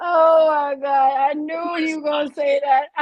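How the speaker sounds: embarrassed shout. Real, not acted. Teased friend yells in embarrassment.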